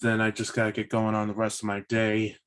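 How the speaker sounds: ordinary delivery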